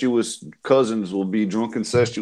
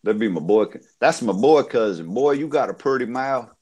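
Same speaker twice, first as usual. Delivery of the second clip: put-on Southern accent. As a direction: imitate a South Carolina country boy. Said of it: "True southern".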